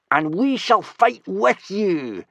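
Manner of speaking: slow, high, loud battle cry; eager yell. Acted. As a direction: yell it like a cocky young Viking. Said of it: "yelled Snotlout".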